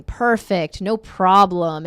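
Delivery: calm neutralizer. Shown as a demonstration. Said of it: "what neutralize means is".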